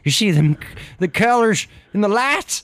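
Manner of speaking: hammed-up hillbilly panic; panicked hillbilly. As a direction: scramble for the gun in panic. Son panics at UFO.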